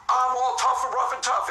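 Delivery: drawn-out show of toughness; mock tough talk. Shown as a demonstration. Showing how a real tough guy would not talk, mock toughness. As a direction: slowly overplay the tough guy. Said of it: "It's not".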